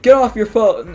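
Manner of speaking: teacher snapping at a student to get off the phone; imitating a yell. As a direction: bark it like an annoyed teacher. Teacher yells at kid on phone.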